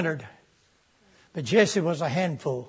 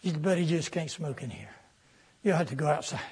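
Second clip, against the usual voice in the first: quiet firm warning; 4 semitones lower, 7 dB quieter than usual. Retold or imitated. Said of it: "I said".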